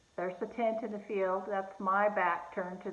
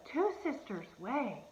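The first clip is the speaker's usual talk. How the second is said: surprised; 5 semitones higher, slower than usual. Retold or imitated. Friend hears matching street name.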